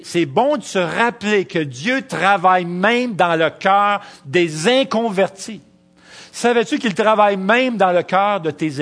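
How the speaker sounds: slow, loud preacher's build to the congregation; fervent preaching. Acted. Preacher exhorting students, slow and loud. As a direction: proclaim it from the pulpit.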